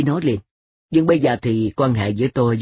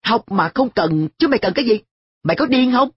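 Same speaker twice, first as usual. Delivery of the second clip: climbing ever higher in disbelief; incredulous; 10 semitones higher than usual. A narrator's reading. Boy demands why his friend needs no schooling, rising in disbelief. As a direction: demand an answer, aghast.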